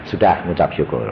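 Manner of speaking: low, calm pronouncement; voice of God. Acted. God tells husband to give thanks, low calm voice. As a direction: drop deep to relay God's word. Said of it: "Tuhan ngomong gitu".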